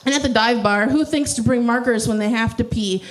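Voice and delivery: rhythmic spoken-word recital; mock-earnest slam delivery; parody slam poetry. Shown as a demonstration. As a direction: recite it with a poet's beat. Performs parody poem.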